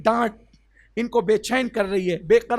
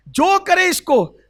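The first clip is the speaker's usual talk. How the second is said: slow, higher and louder; drawn-out emphasis; 8 semitones higher, 5 dB louder, slower than usual. Acted. Preacher stressing the favour, slow and high. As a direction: stretch each word for effect. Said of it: "وی I P quota".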